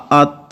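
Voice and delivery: ات with a breathy puff after the t; ات ending in a light th breath; soft aspirated t. Shown as a demonstration. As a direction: let air escape after ات. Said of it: "اب غور سے آواز کو سنیں".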